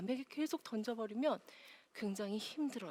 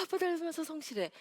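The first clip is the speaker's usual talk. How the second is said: mock parent praise; 6 semitones higher than usual. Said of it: "거짓말".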